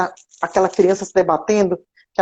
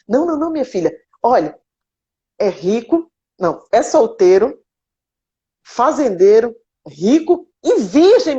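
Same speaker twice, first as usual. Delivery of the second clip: higher, playful sales pitch of a priest; hammed-up matchmaking priest; 4 semitones higher than usual. Priest telling Zezé the man is rich and single, playfully. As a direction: talk up the suitor like a priest playing matchmaker.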